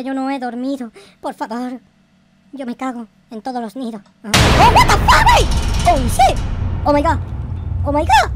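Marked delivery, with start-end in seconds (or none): 4.3-5.4 high, loud yelp of shock; startled gamer scream; panicked shriek. Real, not acted. 5.9-8.3 loud, higher burst of shock; loud shocked exclamations; startled shouts. Real, not acted. Startled by game event.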